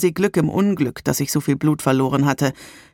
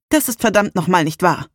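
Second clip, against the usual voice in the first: firm; 3 semitones higher, 3 dB louder than usual. Acted. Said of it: "entgegnete sie bestimmt".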